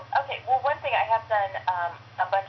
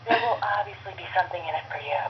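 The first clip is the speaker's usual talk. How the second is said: lightly voiced flirty mom; hint at a reward, mildly suggestive; steamy mom voice. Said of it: "which is basically emergency hot chick".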